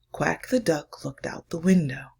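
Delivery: put-on hushed, slowed reading for children; story reading. Reads picture book aloud.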